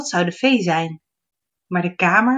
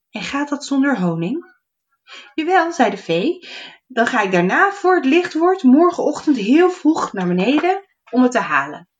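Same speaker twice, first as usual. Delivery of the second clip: fairy and gnome voices; 6 semitones higher, 4 dB louder than usual. Acted.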